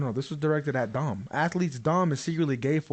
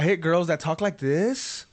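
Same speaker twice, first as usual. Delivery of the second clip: put-on Valley Girl voice; slower than usual. Shown as a demonstration. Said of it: "The Valley Girl voice?".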